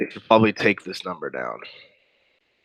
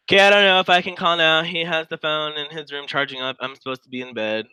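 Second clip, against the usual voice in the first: higher, lightly voiced teen reading his own message; mock kid voice; 6 semitones higher than usual. Reading the boy's chat aloud in a mock kid voice. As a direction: play the sneaky kid, pitched up. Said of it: "rereads the kid's message higher".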